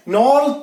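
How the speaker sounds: नॉल with a rounded long 'o'; alcohol suffix pronunciation. Shown as a demonstration. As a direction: say नॉल as 'nol', not 'nal'. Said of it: "तो alcohol के लिए". (नॉल, गोल 'ऑ' के साथ)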